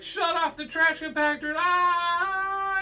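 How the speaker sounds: high, loud desperate yell into a wail; mock panic. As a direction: scream it as the walls close in. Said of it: "he's like".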